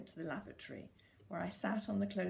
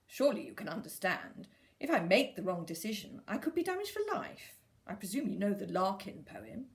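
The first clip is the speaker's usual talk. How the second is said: prim, lecturing fetus; 5 dB louder than usual. Acted. Fetus voiced in a story.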